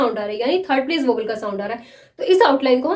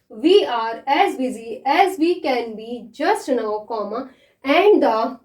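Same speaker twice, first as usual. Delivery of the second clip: very slow, word by word dictation; slow dictation reading; dictation pace; much slower than usual. Shown as a demonstration. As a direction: read it out slowly for students to write. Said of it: "मैं पहले इसको read कर देती हूँ".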